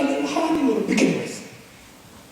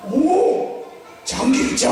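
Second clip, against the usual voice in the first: knowing scoff; much slower than usual. Shown as a demonstration. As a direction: brush them off like you know all about it. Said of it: "아는 척". (다 안다는 듯 놀란 척)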